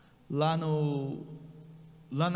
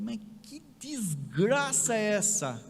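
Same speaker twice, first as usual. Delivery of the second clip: drawn-out, exasperated outburst; appalled disbelief; slower than usual. Retold or imitated. Retelling his reaction to the crash, drawn-out appalled disbelief. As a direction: stretch it out in stunned disbelief.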